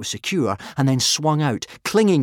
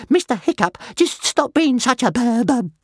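high, louder whiny dragon; complaining; 13 semitones higher, 5 dB louder than usual. A narrator's reading. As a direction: whine it back at the boss.

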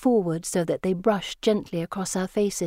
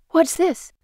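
curious surprise; 10 semitones higher, 4 dB louder than usual. A narrator's reading. Pippa curious.

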